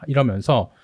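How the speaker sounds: normal talking voice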